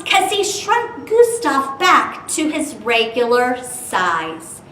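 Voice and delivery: put-on lively read-aloud for kids; storybook reading. Teacher reading Dr. Seuss rhyme to children, lively.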